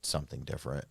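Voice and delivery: low, flat monotone voice. Retold or imitated. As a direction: say it in a dead monotone. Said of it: "like, monotone voice".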